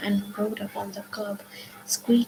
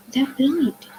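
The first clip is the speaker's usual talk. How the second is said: alarmed realisation; 5 semitones higher, 6 dB louder than usual. A narrator's reading. Realising the drivers are blind.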